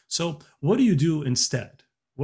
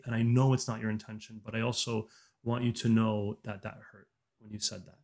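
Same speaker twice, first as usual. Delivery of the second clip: gentle honest request; 2 semitones lower than usual. Shown as a demonstration. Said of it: "or you can say".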